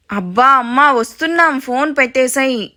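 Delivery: weary son, dragging out the ends; exasperated whine. Acted. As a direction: stretch the words like a pestered son. Son repeats plea after being called.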